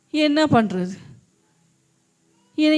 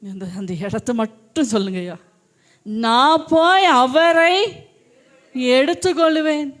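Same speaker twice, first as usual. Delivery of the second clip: humble pleading. Retold or imitated. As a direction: beg him gently for the body. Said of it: "என்ன சொன்னா?".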